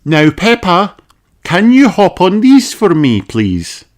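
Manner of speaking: high, friendly doctor; kindly doctor greeting a child; Doctor Polar Bear voice. Acted.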